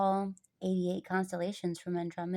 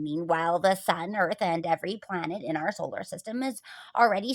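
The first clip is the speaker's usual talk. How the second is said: lightly voiced teacher, emphatic and louder; lecturing schoolteacher; 5 dB louder than usual. Teacher explaining the spinning Earth to students, lightly voiced emphatic lecture.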